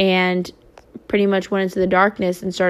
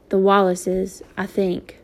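flatly; slower than usual. Acted. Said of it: "said flatly".

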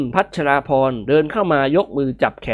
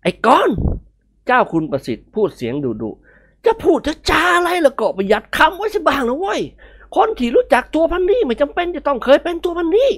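put-on higher, stern old man's scold; stern rebuke; 12 semitones higher than usual. Old master sternly rebuking Nikorn. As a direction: put him in his place.

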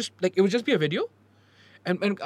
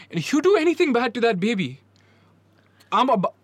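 mock protective threat; 3 semitones higher, 5 dB louder than usual. Real, not acted.

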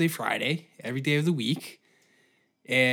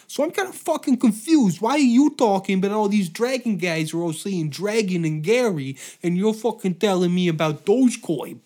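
loud, higher mafia tough guy grilling a cat; Italian mafia guy; 4 semitones higher, 4 dB louder than usual. Retold or imitated. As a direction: chew out the cat like a loud, pushy mobster. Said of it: "An Italian guy just doesn't understand Meowth".

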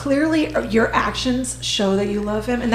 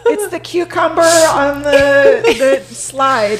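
tipsy, slow and rambling; tipsy slurring; 2 semitones higher, 4 dB louder, slower than usual. Real, not acted. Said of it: "feeding Jen all of the alcohol".

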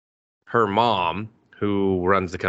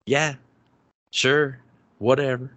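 dismissive; 5 semitones higher than usual. Retold or imitated. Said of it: "he's kind of just like".

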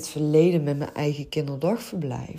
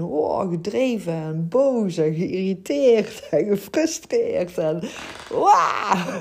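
higher, building to a playful growl of "wah!"; fierce, driven frustration; 4 semitones higher, 4 dB louder than usual. Shown as a demonstration. Coach showing listeners the force in their voice, mock-fierce and frustrated. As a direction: act out mounting frustration, ending in an outburst. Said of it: "wel aan mijn stem. Ik kan heel fel en fanatiek".

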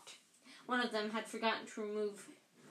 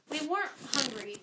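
loudly; 4 semitones higher, 3 dB louder than usual. Acted. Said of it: "said Ron loudly".

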